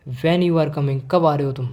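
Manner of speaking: genuinely interested question, voice up. Shown as a demonstration. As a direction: ask "When you are coming" loudly, wanting the answer. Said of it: "मैं तेज़ आवाज़ में बोलूँगा". (तेज़ आवाज़ में सवाल)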